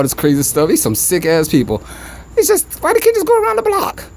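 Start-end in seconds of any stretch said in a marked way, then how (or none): 2.4-4.0 much higher, exasperated outburst; fed up with the bad drivers outside; real disbelief at drivers. Real, not acted.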